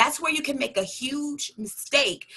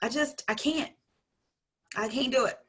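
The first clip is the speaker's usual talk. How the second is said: put-on a frustrated child's voice, higher at the start then fading; whiny little kid; 4 semitones higher than usual. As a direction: voice a little girl giving up on her scissors. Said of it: "She's like".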